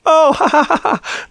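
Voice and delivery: mock giggle of a playful slap; mock playful laugh. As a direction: tease with a silly titter. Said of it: "she's playfully slapping".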